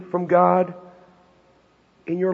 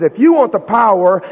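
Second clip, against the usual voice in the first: slow insistent; 4 semitones higher, 6 dB louder, slower than usual. Acted. Jesus repeating the challenge.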